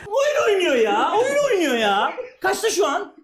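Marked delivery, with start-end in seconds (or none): 0.1-1.1 laughing. Real, not acted. Laughing in pain during sit-ups. 1.1-2.1 gülerek, nefes nefese; acıyla gülerek söyle; laughing. Real, not acted. Laughing in pain during sit-ups.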